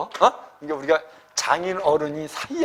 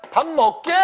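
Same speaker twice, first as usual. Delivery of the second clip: hage command; 7 semitones higher than usual. Shown as a demonstration. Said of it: "명령문으로 하면".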